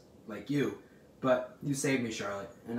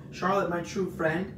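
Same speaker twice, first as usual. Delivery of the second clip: slow, higher plaintive moan; 6 semitones higher, 4 dB louder than usual. A narrator's reading. Pig laments to his true friend, moaning. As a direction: draw it out as a pained plea. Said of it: "he moaned".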